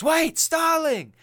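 high, loud, stretched mock shout; calling out. Imitating Hannibal calling back the departing trainee, urgent mock shout.

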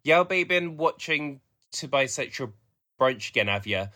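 second go at a Black Country voice; broad Black Country vowels, "tea" as "tay"; Black Country accent. Shown as a demonstration. Nagging a partner about the podcast, demonstrated Black Country accent. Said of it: "it would be something like that".

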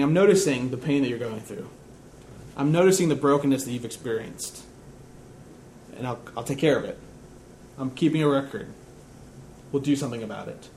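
low, softly spoken comfort; gentle reassurance. Acted. God telling the hurting psalmist he has noticed, gently reassuring.

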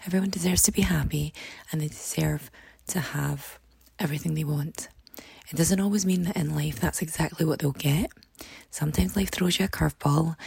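hoarse, croaky speaking voice. Real, not acted. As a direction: talk through a croaky, worn throat. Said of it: "apologies for the really croaky voice".

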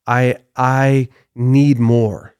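slow, stretched demand, leaning on need; drawn-out craving. Retold or imitated. Preacher voicing Satan's greed to the congregation, slow and drawn out. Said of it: "That's what the devil was saying".

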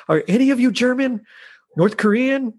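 high-pitched acted questions; mock hopeful questioning. Hero quizzing terrorists who are not German, mock hopeful. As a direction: go high, trying one nationality after another.

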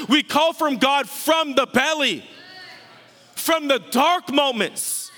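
emphatic, driving sermon appeal; urgent preaching. Real, not acted. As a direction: preach it in insistent, punched phrases. Preaches urgent appeal at full force.

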